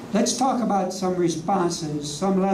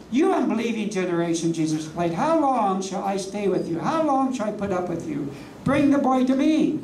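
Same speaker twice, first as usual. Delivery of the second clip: indignant Jesus. Retold or imitated. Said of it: "I bet the tone of his voice".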